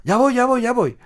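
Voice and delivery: river spirit answering the call; high spirit voice. Acted. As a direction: answer like a little spirit rushing over.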